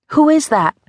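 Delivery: put-on frightened boy calling toward a noise; startled question. A narrator's reading. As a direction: jump at a rustle. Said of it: "Arlo asked".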